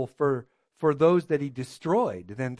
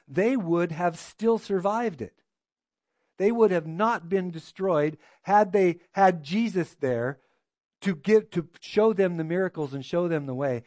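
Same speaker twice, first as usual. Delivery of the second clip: raised preaching voice; preaching emphasis; 3 semitones higher, 6 dB louder than usual. Real, not acted. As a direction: drive the point home to the congregation. Preacher driving the point home.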